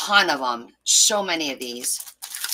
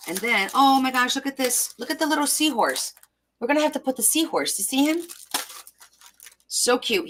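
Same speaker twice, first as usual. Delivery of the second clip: excited; 7 semitones higher than usual. Real, not acted. Finds cute seahorse stickers.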